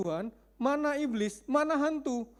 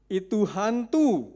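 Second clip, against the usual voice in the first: mock frightened cry; 5 dB louder, much slower than usual. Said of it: "berteriak-teriak karena takut".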